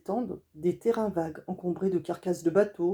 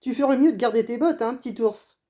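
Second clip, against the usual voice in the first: quick, louder smiling advice; 5 semitones higher, 8 dB louder than usual. Acted. Raven advises the boy to keep his boots, smiling and quick. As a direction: tease him kindly. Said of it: "en souriant".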